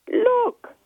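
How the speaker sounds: high, loud shout to get attention. Acted. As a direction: call out loud, pointing excitedly. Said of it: "she shouted".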